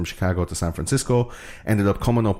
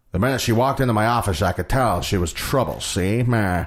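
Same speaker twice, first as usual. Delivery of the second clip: noir detective; 2 semitones higher than usual. Retold or imitated. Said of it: "if you remember those old".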